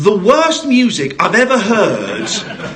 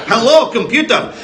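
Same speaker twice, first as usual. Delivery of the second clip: lightly imitated Scottish accent, amused; mock Scottish, with a laugh; Scotty; 2 semitones higher than usual. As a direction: repeat the quote in playful Scottish. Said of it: "Scotty goes back to nineteen eighty-four".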